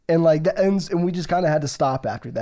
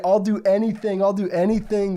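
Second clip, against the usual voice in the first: higher, insistent mock begging; pleading; 4 semitones higher than usual. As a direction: beg for your life, acting it out. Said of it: "she was just pleading for her life".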